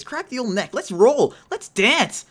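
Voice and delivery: hyped self pep talk before the boss. Real, not acted. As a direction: psych yourself up before the fight. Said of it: "I'm so hyped for this".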